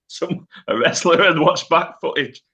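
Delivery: high, loud laugh breaking through the words; cracking up at the absurd idea; laughing disbelief. Real, not acted. Podcast host laughing that a wrestler rewatched footage, laughing disbelief.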